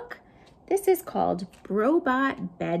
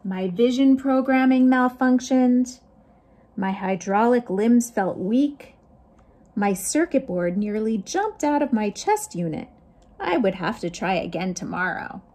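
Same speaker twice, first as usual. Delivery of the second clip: robot speak. Acted. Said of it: "Some more robot speak".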